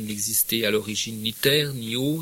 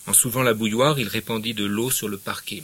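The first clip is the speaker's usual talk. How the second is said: measured literary reading aloud; story narration. Acted. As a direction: read the novel to the class. Reads the novel aloud.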